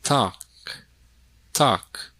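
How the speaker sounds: "Talk" said without an L; silent L. Shown as a demonstration. Teacher checking silent-letter answers, silent L in "Talk". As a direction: repeat "Talk", keeping the L silent.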